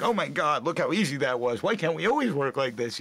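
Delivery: high, giddy imitation of an overjoyed director; thrilled. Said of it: "thrilled. He was just jumping up and down".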